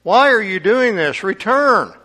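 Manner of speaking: high, loud pleading cry; urgent plea. Acted. Naomi begging her daughters-in-law to turn back, loud and pleading.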